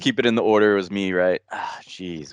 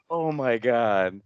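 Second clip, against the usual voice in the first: very slow, drawn-out groan of embarrassment; mock mortification; 3 semitones higher, much slower than usual. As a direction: stretch it out, embarrassed. Retelling embarrassed reaction in restaurant.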